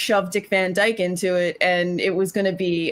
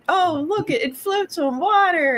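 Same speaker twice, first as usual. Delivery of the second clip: put-on high, gushing child's voice; excited little kid; 9 semitones higher than usual. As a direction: gasp at it like a wide-eyed kid. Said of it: "they're like".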